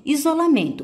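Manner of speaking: isolamento said high, with "men" strongest; isolamento, weight on the next-to-last syllable; stress on MEN. Shown as a demonstration. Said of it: "o men é que tem a maior intensidade".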